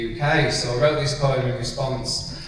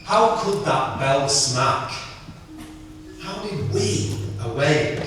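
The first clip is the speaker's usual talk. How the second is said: elegy poem; slower than usual. Acted. Poet reading a eulogy for his mate, hushed recitation.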